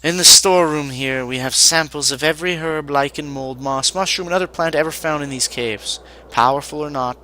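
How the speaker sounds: lightly voiced apprentice reciting an inventory; weary apprentice mage. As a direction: list it off as a put-upon apprentice mage.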